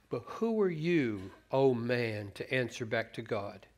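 slow, questioning read of the verse. Shown as a demonstration. Preacher rereads the verse slowly to test it. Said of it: "I don't think so".

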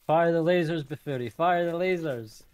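shouted command. Real, not acted. Shouting orders in defense.

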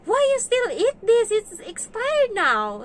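put-on high, loud kid's voice; imitated amused child. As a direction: squeal it like an incredulous child, dragging the ending. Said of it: "natawa siya. Sabi niya ganun sa akin".

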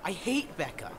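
annoyed outburst. Acted. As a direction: blurt it out with open annoyance. Bitter outburst about Becca.

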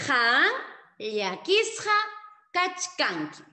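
Han llakisqa kachkanki said word by word with pauses, loud; teacher drilling the phrase; slow, spaced model sentence. Shown as a demonstration. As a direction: pause after each word for the class. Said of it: "no lo olvides".

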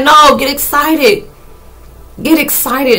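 high, loud, stretched-out urging; insistent encouragement. Acted. Universe urging a scared person on, excitedly insistent. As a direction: act out pumping up someone frightened.

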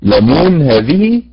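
لمون drawn out slowly, syllable by syllable; slow syllable demo. Shown as a demonstration. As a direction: spell out the rhythm of لمون slowly. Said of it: "عندما نقول يعلمون". (تقطيع بطيء لمقطع لمون)

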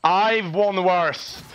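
mock motivational line. Streamer mock-consoles teammates, slow and low. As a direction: say it slow and low like a fake coach. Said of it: "Time for some motivational speech".

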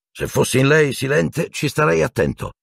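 agitated advice, pitch held up; warning. A narrator's reading. Minister warning the headmaster about the professor, agitated.

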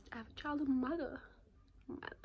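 teasing fake-out reveal; mock announcement. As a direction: pretend big reveal, lifted pitch. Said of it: "Just kidding".

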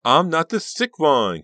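slow, high, loud hysterical denial; furious cry. A narrator's reading. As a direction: scream the denial back. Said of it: "Karina cried".

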